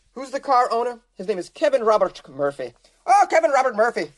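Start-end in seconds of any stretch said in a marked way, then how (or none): 3.1-4.1 loud, higher, knowing "oh"; like you knew this guy; knowing mock recognition.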